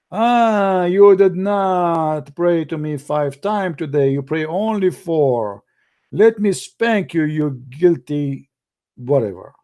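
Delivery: a scolding deity lording it over a sinner, hammed up a touch; mock angry God. God scolding a Muslim who missed a prayer, mock stern. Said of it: "He's waiting".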